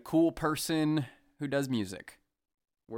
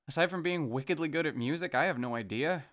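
the line again, pitched higher; 4 semitones higher than usual. Shown as a demonstration. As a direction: lift the voice on the whole line. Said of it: "That's not high enough".

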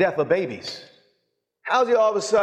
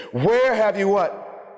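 higher, slow, commanding question; angry authority; 4 semitones higher, much slower than usual. Acted. Jesus at the funeral taking total authority, angry and commanding. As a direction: take charge with righteous indignation. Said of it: "total authority over the situation".

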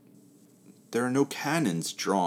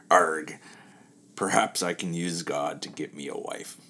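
gruff pirate captain, lightly done. Acted. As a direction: growl it like an old sea dog. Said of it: "should I do it in a pirate voice?".

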